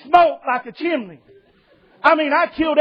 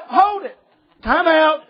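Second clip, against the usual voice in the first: higher, laughing, slow mock protest; mock indignation; 5 semitones higher, slower than usual. Preacher retelling to the policeman who asked for prayer, laughing mock protest. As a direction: play up the outrage, half laughing.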